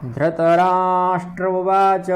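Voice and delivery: धृतराष्ट्र with री, उवाच slow; ri pronunciation. Shown as a demonstration. Teacher showing the री reading of धृतराष्ट्र. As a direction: say धृतराष्ट्र with री, then a drawn-out उवाच. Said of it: "हमारे मध्य क्षेत्र में तो रीकार ही बोलते हैं".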